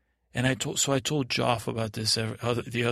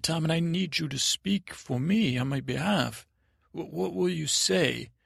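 higher, earnest appeal; pleading; 5 semitones higher than usual. Acted. Prisoner needs Tommen to speak for him, pleading. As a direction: plead with mild worry.

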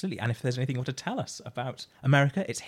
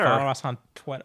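louder mimicked American accent; attempted American accent; 3 semitones higher, 5 dB louder than usual. Co-host copying the Twitter plug, attempted American accent. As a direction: echo the plug in mock American. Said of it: "say with an American accent".

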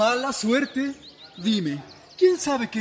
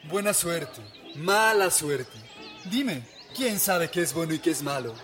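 serene; 3 semitones lower than usual. Acted. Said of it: "contestó con su tono sereno de antes".

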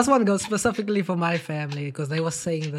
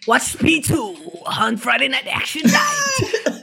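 TV announcer voice; 4 semitones higher, slower than usual. Retold or imitated. Imitating the TV announcer.

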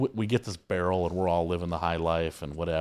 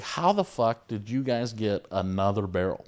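slow, higher-pitched mock disbelief; imitated incredulity; 4 semitones higher than usual. Sales manager about a second barrel, imitated incredulity. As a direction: draw out the question like an exasperated caller. Jack's retold disbelief on phone.

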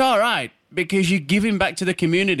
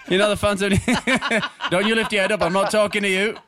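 laughing; 2 semitones higher than usual. Real, not acted. Mocking the guest while laughing.

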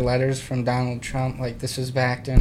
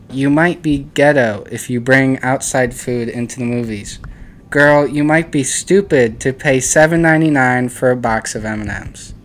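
reading aloud; 4 dB louder than usual. Acted. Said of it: "read out the meme".

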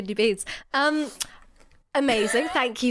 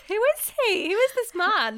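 mock yearning; 11 semitones higher than usual. Teasing about the boyfriend.

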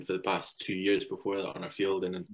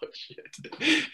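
mock alarm; 4 dB louder than usual. Reacting to batsman's threat.

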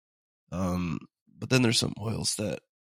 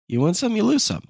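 sing-song saying; 12 semitones higher, 6 dB louder than usual. Pretend.

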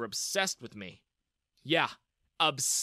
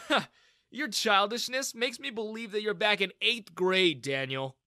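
smirking retort; 7 semitones higher, 4 dB louder than usual. Acted. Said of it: "I smirked".

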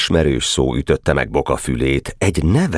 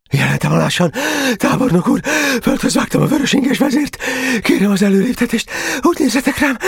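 delirious rasping. Acted. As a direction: rasp it out in feverish delirium. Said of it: "most már hörögve beszélt". (hörögve, lázas félrebeszéléssel)

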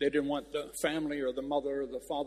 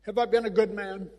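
put-on higher, louder plea of an old man; pleading old man; 5 semitones higher, 3 dB louder than usual. Old veteran at the grave asking his wife, higher plea. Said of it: "he looks at his wife, and he said".

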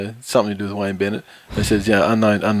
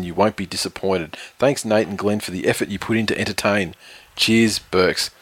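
reading a review. Acted. Reads out a listener review.

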